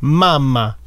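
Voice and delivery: mamma said the Italian way, MA-ma with a falling end; Italian-style mamma with a double m. Shown as a demonstration. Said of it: "Moi, je suis italien".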